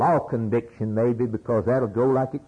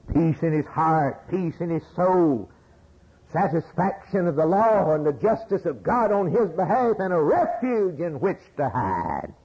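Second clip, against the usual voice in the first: rising preaching fervor; 6 semitones higher than usual. Acted.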